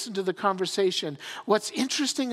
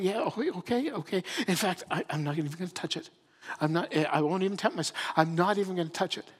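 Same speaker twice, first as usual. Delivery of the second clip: quick, softer, hurried okay; hasty reassurance; 3 dB quieter, faster than usual. Acted. Eve reassuring herself about the tree, quick and hushed. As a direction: rush out the promise nervously. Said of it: "looking back and saying".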